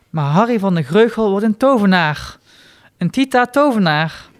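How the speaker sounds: hoger en luider, vol overtuiging; vastberaden belofte. Acted. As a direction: roep het uit als een heilige eed. Harry's vurige belofte aan zichzelf. (vastberaden, hoger en luider uitgeroepen belofte)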